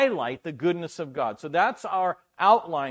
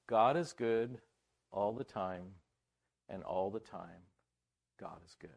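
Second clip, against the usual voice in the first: calm affirmation; 7 semitones lower, 6 dB quieter than usual. Retold or imitated. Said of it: "the African guy goes".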